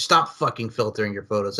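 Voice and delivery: emphatic plea, stressing "stop fucking filtering". Real, not acted. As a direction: drive home "stop fucking filtering" firmly. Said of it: "I said it with that much emphasis".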